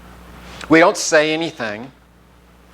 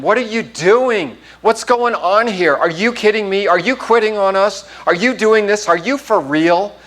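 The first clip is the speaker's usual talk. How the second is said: mock yell; 5 semitones higher than usual. Teammates yelling at Scott as he jogs, mock yell. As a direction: imitate teammates yelling in disbelief. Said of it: "we're starting to yell at him".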